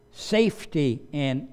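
normal talking voice

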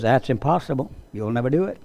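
put-on old geezer. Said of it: "some old geezer comes over and says".

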